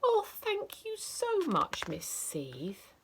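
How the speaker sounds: put-on delighted child thanking teacher; grateful child.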